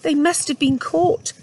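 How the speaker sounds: trapped mother rabbit, mildly mournful; lightly voiced mother rabbit, sad. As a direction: voice the worried mother rabbit, gently.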